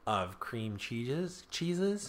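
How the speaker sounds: mock French accent, drawn out; fake French accent. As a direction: put on a silly French accent. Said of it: "fake French to Korean like that".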